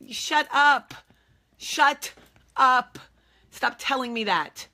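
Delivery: high, loud angry shout; furious retort. Retold or imitated. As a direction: yell shut up in exasperation. Snapping at well-wishers.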